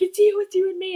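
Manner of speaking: high, fond declaration; lightly voiced lovestruck Chris; a hint of sweet boyfriend. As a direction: gush it like a smitten boy. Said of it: "Chris is like".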